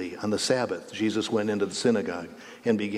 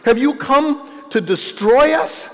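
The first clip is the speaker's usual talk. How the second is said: high, loud, slow shrieking demon; shrieking demon asks if Jesus came to destroy; 9 dB louder than usual. Acted. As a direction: screech the question at Jesus. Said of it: "cried out".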